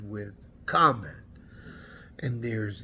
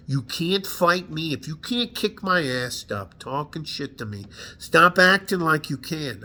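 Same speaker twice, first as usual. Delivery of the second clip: heated, punching each threat at women; angry rant. Real, not acted. Veteran venting at women who act tough, angry. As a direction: spit it out, fed up and furious. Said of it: "I don't usually get this emotional".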